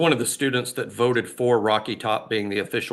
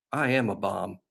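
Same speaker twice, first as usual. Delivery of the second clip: matter-of-fact; 4 semitones lower, 5 dB quieter than usual. Retold or imitated. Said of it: "he said with a straight look on his face".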